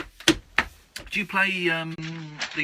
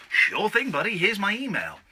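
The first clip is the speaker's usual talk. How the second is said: upbeat, higher mock-friendly answer; breezy mock reply; 5 semitones higher than usual. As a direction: play an obliging yes, pitched up. Voices an eager reply.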